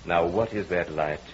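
insistent, swelling hypnotic voice; hypnotist's commands. Acted. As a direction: pull her in with every command. Hypnotist commanding the entranced wife.

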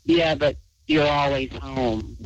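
slow, flat monotone retelling; imitating a creepy flat monotone. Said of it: "says in a monotone voice".

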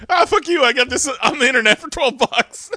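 high, fast, laughing brush-off; mock cocky retort. Friend imitates Lee brushing off the preacher, laughing cocky retort. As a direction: shrug it off with a cheeky grin.

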